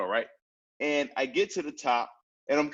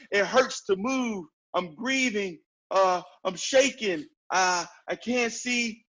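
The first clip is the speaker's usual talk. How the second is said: feeling all the pain; 5 semitones higher than usual. Shown as a demonstration. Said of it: "Like, feel all that pain".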